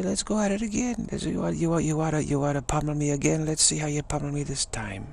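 lightly acted scrappy defiance; Irish fighting spirit. Irishman ready to be pummelled again, eagerly defiant. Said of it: "Irish jump out of bed in the morning and say".

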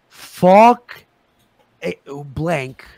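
sudden loud fake curse; mock outburst. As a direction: bark it out as a put-down. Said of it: "It just takes him going".

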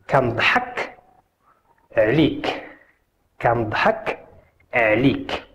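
phrase split into two careful pieces; repeat-after-me demo. Shown as a demonstration. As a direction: model it for learners, pausing before عليك.

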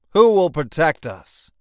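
desperate citizens crying out to the sky, wailing; wailing crowd. A narrator's reading. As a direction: wail it like a frightened crowd. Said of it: "the people wailed".

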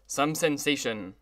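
slow, amused and patronizing; a condescending little joke to the crowd; jovial condescension. Acted. Orchestra leader joking down to the guests, jovially condescending. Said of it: "with a jovial condescension".

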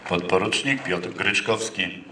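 loud, slow formal roll call; calling out name. Real, not acted. Calling out graduate's name at ceremony.

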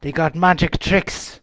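calmed-down castaway, lightly voiced; wary unhinged pirate woman. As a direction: question the strangers as a wary old sea-dog woman. Plays the pirate woman warning.

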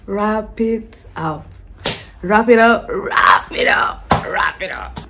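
mock crying. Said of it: "drawn-out mock crying".

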